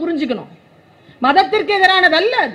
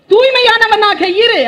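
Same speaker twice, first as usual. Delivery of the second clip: higher, louder and slow, a firm order; stern command; 7 semitones higher, 5 dB louder, slower than usual. Acted. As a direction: proclaim it as a commandment. Quoting a moral command. (உரத்த, மெதுவான கட்டளைக் குரல்)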